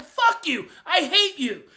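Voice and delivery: mock teenage outburst, each word hit hard; pissed-off teen. Teenager lashing out at a parent, mock angry. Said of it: "teenage kid is really pissed at you".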